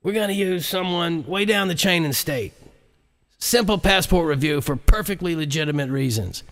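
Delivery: a muffled recording of a conspirator; vice president on recording. Acted. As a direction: sound like a scheming voice on a bugged tape. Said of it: "the vice president's voice came over the recording".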